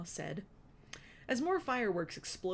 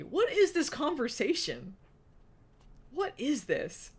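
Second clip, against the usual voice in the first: baffled aside; 8 semitones higher, 7 dB louder than usual. Real, not acted. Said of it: "I don't know what this is".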